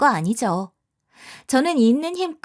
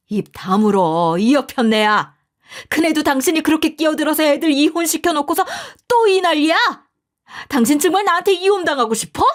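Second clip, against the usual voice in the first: angry husband; 4 semitones higher, 4 dB louder than usual. A narrator's reading. Father-in-law silencing his wife, stern angry rebuke. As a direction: shut her up hard.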